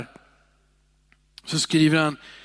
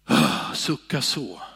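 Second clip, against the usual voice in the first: weary sigh; 10 semitones lower, slower than usual. Shown as a demonstration. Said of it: "Det finns en skillnad på att".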